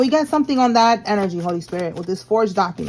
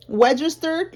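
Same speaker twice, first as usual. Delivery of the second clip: put-on high, kid-like registered; 5 semitones higher, slower than usual. Shown as a demonstration. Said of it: "like a kid".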